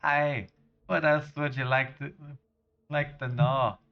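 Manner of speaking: hearty generic Scottish lad-speak; terrible Scottish accent. Acted. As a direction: put on a bad Scottish accent. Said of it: "really terrible generic Scottish accent".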